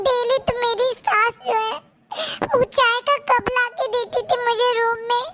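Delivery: slow, tearful retelling; crying retelling. Acted. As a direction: tell it through tears. Daughter retells while crying. (रोते हुए बताना)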